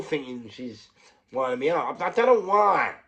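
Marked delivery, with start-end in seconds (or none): 2.0-2.9 high, loud burst of disbelief; excited. Real, not acted. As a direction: blurt it out, almost shouting. Excited retelling peak.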